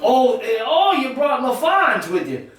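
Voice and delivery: father surprised at his daughter's husband. Acted. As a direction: react to the unexpected guest. Father surprised by son-in-law.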